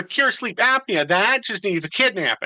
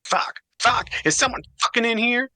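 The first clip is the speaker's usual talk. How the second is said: grating nasal voice. Acted. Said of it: "Duke's grating, nasally voice".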